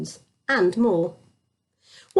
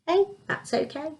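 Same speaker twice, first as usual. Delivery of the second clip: kind, smiling; 7 semitones higher, 5 dB quieter than usual. Acted. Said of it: "the king smiled and said".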